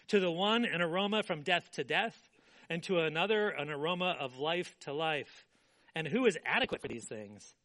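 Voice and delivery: measured public Bible reading; scripture reading. Acted. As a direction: read the verses out with weight. Reads scripture aloud.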